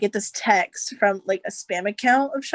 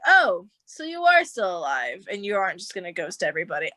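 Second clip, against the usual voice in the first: bitchy retort. Retold or imitated. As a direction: act out a catty sarcastic greeting. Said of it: "I was a bitch".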